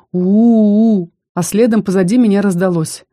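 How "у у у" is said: droop it into a sorry whine; sad dragon moan. A narrator's reading. A dragon too big for the window, moaning sadly. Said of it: "испустил печальное".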